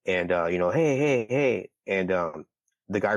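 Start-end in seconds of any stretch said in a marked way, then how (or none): 0.7-1.7 higher-pitched "hey" to flag someone down; retold calling out. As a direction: call out as if stopping a driver. Retells calling out to a driver.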